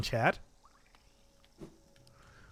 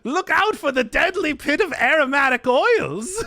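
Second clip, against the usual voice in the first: high, slow hammy dungeon host; theatrical host voice; 10 semitones higher, 3 dB louder, slower than usual. Pretend. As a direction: announce it like a campy villain. Hosting the massage dungeon.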